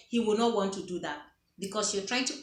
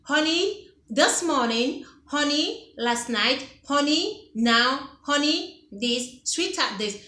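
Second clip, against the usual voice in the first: sweet and direct; 3 semitones higher, slower than usual. Shown as a demonstration. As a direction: lead with a sweet honey each time. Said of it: "go ahead and say what you want to say".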